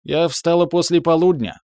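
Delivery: high tipsy voice; drunk. A narrator's reading. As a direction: drunk and pleased with herself. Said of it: "Пьяная".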